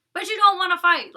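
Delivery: loud, high, fed-up jab; exasperated. Real, not acted. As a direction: throw it back at her, exasperated. Calling out her contradiction.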